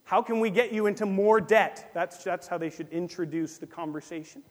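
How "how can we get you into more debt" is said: loud fake-friendly banker; hammed-up banker offering more debt; mock banker pitch. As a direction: oversell it like a pushy bank.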